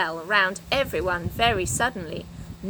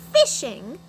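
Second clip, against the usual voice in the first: disgusted; 3 semitones higher, 5 dB louder than usual. Acted. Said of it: "said Jo in disgust".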